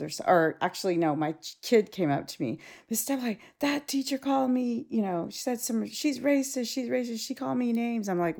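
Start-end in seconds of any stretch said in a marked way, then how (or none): 2.9-8.1 higher-pitched imitation of an upset student; lightly voiced kid complaining to a teacher. Student reporting a racist teacher, mildly upset kid voice. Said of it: "because he's all upset".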